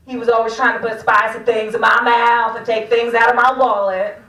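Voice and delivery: loud, lightly put-on Southern accent. Comic describing Jason from Louisiana, attempted Southern accent. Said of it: "Southern accent, I'll keep working on it".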